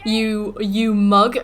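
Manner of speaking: mocking game. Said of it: "it was like".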